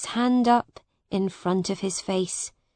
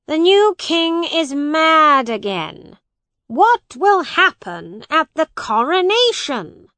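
high, loud wail of dismay; worried outburst, pitched way up; alarmed dismay; 7 semitones higher, 7 dB louder than usual. A narrator's reading. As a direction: exclaim it loudly, in despair at the king. Lord Protector exclaims in dismay.

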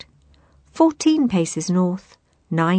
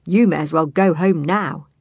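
grinning; 4 dB louder than usual. Acted. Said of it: "he said with a grin".

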